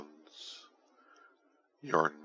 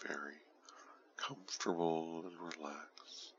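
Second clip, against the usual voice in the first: right in your ear; 7 dB quieter than usual. Acted. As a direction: close intimate whisper. Whisper close to listener.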